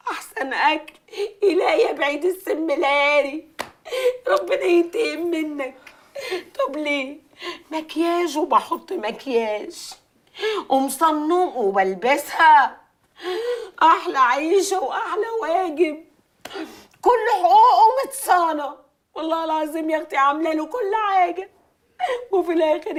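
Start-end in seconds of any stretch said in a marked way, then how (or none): 1.4-3.5 tearful curse. Acted. Cursing husband while crying. 13.8-21.5 tearful lament, breaking into laughing sobs; sobbing complaint. Acted. Wronged wife sobbing to her friends, crying.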